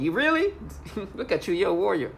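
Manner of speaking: mocking a neighbor's boast, high scoffing laugh; scornful laugh. Real, not acted.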